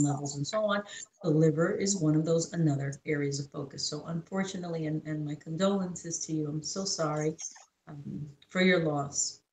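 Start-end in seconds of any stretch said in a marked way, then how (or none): 3.9-9.4 consoling. Real, not acted. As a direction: ease into it softly, sincerely sorry. Offers condolences for sister's loss.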